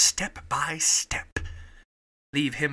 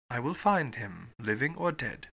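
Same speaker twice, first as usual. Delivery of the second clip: low, softened resolve; quiet; 4 semitones lower, 5 dB quieter than usual. A narrator's reading. Fogg to Auda about rescuing his servant, quiet. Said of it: "he said quietly to Auda".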